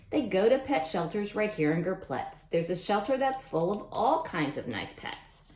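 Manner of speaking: lively storybook read-aloud voice; reading to children. Acted. Teacher reading a rhyming book to kids, storybook voice. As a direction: read it out to the class with bounce.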